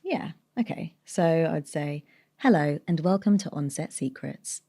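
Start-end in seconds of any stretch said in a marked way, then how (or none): 2.4-4.6 clean neutral British corporate intro; smooth neutral voiceover intro; corporate read. Shown as a demonstration. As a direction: read it like a polished company welcome. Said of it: "the intro of a corporate read".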